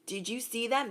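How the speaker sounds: hushed, awed whisper. Retold or imitated. Onlookers gossip about you in a hushed whisper. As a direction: lean in and whisper it. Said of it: "They're whispering".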